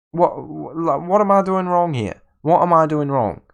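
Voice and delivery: real fed-up disbelief; exasperated outburst. Real, not acted. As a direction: plead with the game itself. Frustrated at his team's performance.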